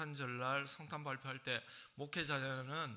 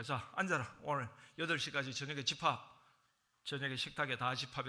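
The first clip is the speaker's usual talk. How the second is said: bossy parent summons; 5 dB louder than usual. Retold or imitated. Parent summoning family to worship.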